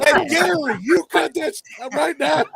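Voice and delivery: high, scolding put-on voice; hammy stern scold; mock scolding voice. Echoes role voice, scolding.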